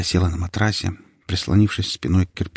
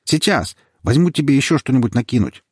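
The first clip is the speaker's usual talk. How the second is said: calling from upstairs; 6 semitones higher, 3 dB louder than usual. Acted.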